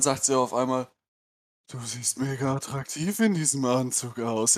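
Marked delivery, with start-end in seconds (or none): 1.7-4.6 flat, droning delivery like someone out of it; monotone Stimme. Retold or imitated. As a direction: say it in one unchanging tone, spaced out. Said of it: "aber auch in so 'ner monotonen Stimme". (monoton und abwesend, wie auf Drogen)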